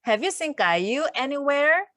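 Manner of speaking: "Have you seen 까유 anywhere" said very slowly, rising at the end; slow teacher demo for learners to repeat; slow read-along. Shown as a demonstration. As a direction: lead the class through it word by word. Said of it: "같이 읽어볼게요".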